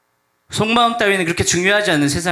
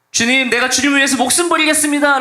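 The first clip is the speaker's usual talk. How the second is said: fervent vow; 10 semitones higher, 4 dB louder than usual. Acted. Peter's earnest vow to Jesus.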